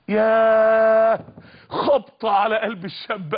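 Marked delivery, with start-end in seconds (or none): 0.1-1.2 a slow, loud, stretched sigh of yaah; long drawn-out yaah. Acted. Preacher to his audience, long loud drawn-out yaah. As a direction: let the yaah ring out long and heavy. Wistful exclamation in sermon story.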